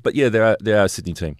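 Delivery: words forced through clenched teeth; grudging, jaw clenched; through gritted teeth. Real, not acted. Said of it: "I'm doing it through clenched teeth".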